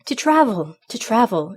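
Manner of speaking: loud, yearning outcry; passionate exclamation. A narrator's reading. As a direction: exclaim it with sudden longing. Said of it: "exclaimed he, overcome by most painful and passionate".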